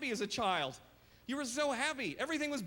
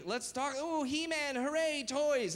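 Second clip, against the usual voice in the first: put-on higher, bright-eyed child voice; happy little kid; 6 semitones higher, slower than usual. A hint of his childhood self, cheering over toys. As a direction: chirp it like a delighted boy. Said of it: "One day I was happy".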